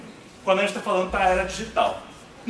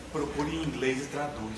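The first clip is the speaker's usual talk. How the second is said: soft, slower confiding aside; leaning in to whisper; 7 semitones lower, 9 dB quieter, slower than usual. Shown as a demonstration. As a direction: drop the voice to share a secret. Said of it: "vou falar baixinho só pra vocês". (inclinando-se para sussurrar)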